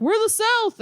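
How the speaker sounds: high mocking pitch on South, stretched out; mocking Southern claim. Mocking northeastern states that claim to be the South, high and stretched. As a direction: sneer it like a proud Southerner. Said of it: "states that are like".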